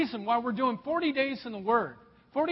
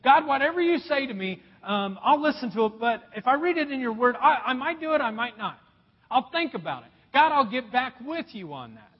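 prideful brush-off; 2 semitones higher, 4 dB louder than usual. Retold or imitated. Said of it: "this prideful attitude that says".

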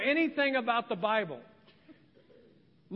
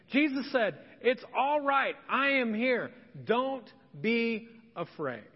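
raised, emphatic scripture reading; preacher reading scripture; 3 semitones higher than usual. Acted. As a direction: read the verses out with conviction, pitched higher. Reads Bible verses aloud to congregation.

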